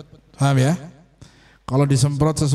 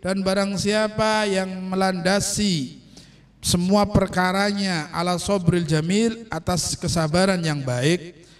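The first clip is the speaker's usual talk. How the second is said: slow, measured reading with drawn-out phrases; slow, sustained teacher's recitation; religious text recitation; 3 semitones higher than usual. Real, not acted. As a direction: read a sacred text out slowly, translating phrase by phrase. Reads Arabic text with translation.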